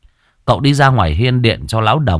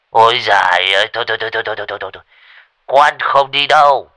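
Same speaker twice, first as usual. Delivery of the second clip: panicked refusal; 2 semitones higher than usual. Acted. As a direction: refuse in a fright. Scared old man refusing. (hoảng hốt từ chối)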